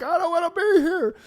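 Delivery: mock a kid melting down at the Santa photo; screaming kid. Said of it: "with the kids screaming".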